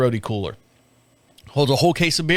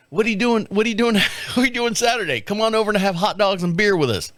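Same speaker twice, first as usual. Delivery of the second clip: mock invitation; 5 semitones higher, faster than usual. Mocking inviting neighbors.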